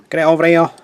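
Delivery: loud, high Mancunian call; broad Mancunian accent. Acted. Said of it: "Terribly Mancunian then".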